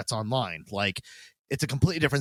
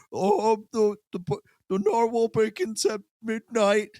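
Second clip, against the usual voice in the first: higher, slow, awkward nerd voice; creepy sweaty nerd; 9 semitones higher, slower than usual. Retold or imitated. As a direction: drag out the line like a creepy stranger. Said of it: "late thirties is like".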